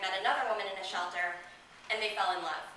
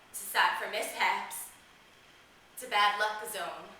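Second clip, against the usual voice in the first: bleak and subdued; slower than usual. Acted. Thirteen-year-old judging her own body a bad place, bleak and subdued. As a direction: let each phrase drop heavily with pauses.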